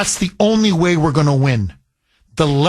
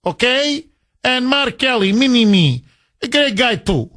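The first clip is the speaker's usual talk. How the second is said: mock Soviet handler; 3 semitones higher than usual. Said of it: "like in the old Soviet Union".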